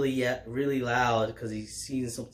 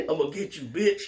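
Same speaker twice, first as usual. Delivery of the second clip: the threat pushed much higher, laughing at it; squeaky mock threat; 6 semitones higher, much faster than usual. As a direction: parody the villain with a squeak on bitch.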